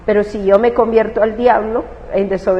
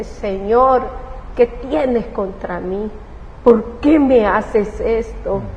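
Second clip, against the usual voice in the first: tearful prayer to God; slower than usual. Retold or imitated. Mother on the stairs crying out to God, pleading. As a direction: beg God through tears. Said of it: "yo comencé a llorar".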